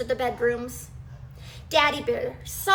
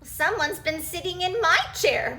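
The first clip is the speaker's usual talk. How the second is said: exclaimed; 4 semitones higher than usual. Acted. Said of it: "Mommy Bear exclaimed".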